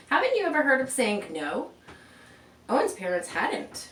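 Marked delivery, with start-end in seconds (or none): 0.1-1.7 loud, high, nosy neighbor scolding; higher, louder busybody voice; bossy neighbor. Acted. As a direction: scold like a know-it-all neighbor.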